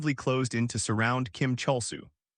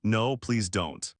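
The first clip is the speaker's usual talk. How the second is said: terrified plea; 2 semitones lower, much slower than usual. Acted. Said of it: "panic and shield her head in terror".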